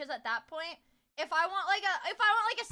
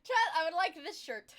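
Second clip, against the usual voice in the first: laughing while begging chat; laughing plea; 3 semitones higher, 3 dB louder than usual. Real, not acted. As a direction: beg through laughter.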